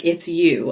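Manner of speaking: YOU picked out; weight falls on YOU; stress on YOU. Shown as a demonstration. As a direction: lean on the word YOU. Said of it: "he's emphasizing the".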